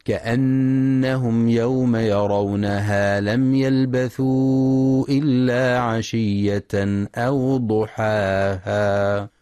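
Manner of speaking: slow, melodic tajwid chanting; Quran recitation. Shown as a demonstration. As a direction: chant the verse slowly, drawing out the vowels. Recitação do versículo.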